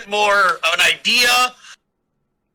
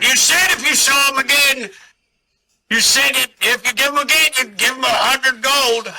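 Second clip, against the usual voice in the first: high character voice; 6 semitones higher than usual. Acted. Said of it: "He's like".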